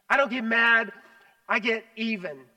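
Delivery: a light vengeful swagger; quoting a saying. Retold or imitated. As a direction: land "even" as a threat. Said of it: "we all know the saying".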